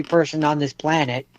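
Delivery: talking around a mouthful of ice; words muffled by ice. Real, not acted. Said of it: "I took a mouthful of ice".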